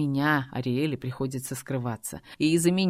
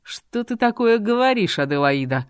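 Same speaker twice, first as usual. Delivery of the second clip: growled; 7 semitones higher, 7 dB louder than usual. A narrator's reading. Robert snapping angrily at the girl. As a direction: bark it at her. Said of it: "Рыкнул на девушку".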